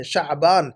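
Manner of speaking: شعبان as "sha'-baan"; mispronunciation. Shown as a demonstration. Teacher reads out student's error, mispronunciation. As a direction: put the 'ayn before the b in شعبان. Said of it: "آپ نے کیا لکھا ہے".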